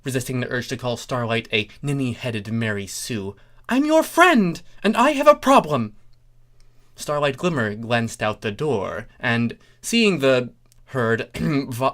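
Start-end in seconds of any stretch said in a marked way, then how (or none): 3.7-6.0 very high, loud pony insisting; insistent Trixie. Acted. Trixie insisting to Starlight she has a problem, high and loud. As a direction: plead your case high and loud.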